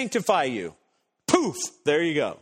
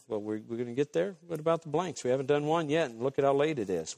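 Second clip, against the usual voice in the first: mock congregation complaint; 5 semitones lower, 5 dB quieter, faster than usual. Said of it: "I know what you're thinking".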